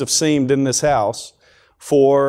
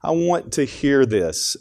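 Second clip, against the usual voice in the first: pleading God; 7 semitones higher than usual. Acted. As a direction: gently beg them to open up, pitched well up. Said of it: "God's maybe in heaven saying".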